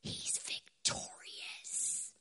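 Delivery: slow, hushed whisper; awed whisper. Acted. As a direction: breathe it out slowly, barely voiced. Awed proclamation before building up.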